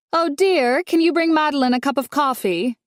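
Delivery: sing-song lady of the house; calling out sweetly. A narrator's reading. Dolores calls to the maid.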